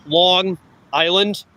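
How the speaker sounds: Long Island said slowly and carefully; slowed down. Shown as a demonstration. Explaining to viewers, slow careful Long Island. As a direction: stretch out Long Island, each part clear. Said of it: "If you say it slower".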